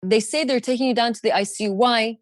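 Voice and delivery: gentle breathing coach for dad. Retold or imitated. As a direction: urge him to breathe, steady and caring.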